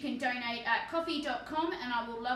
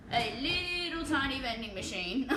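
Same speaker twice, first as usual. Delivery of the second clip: cutesy emphasis. Real, not acted. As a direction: stretch "little" cutely, ending in a giggle. Cooing over the miniature, then giggles.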